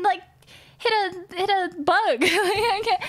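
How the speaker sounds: high, half laughing, half crying; laughing through the upset; laughing disbelief. Real, not acted. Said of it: "laughing, upset".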